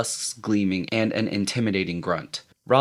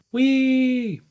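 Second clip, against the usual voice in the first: excited; 4 dB louder than usual. A narrator's reading. Boy cheering the hit.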